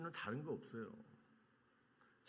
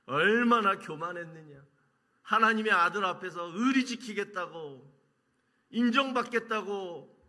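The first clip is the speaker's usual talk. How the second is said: remorseful cry; 5 semitones higher, 8 dB louder than usual. Pretend. Voicing Peter's remorse.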